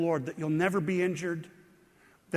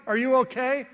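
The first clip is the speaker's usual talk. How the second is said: loud, higher call of Hey, buddy; calling across the dock; 5 semitones higher, 4 dB louder than usual. Retold or imitated. Man on next dock calls to fallen preacher, loud, higher. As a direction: shout it across the water to a stranger. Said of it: "he yelled over and he said".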